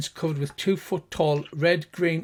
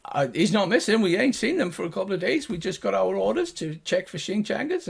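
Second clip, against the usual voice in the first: gnome guard; 4 semitones higher than usual. Acted.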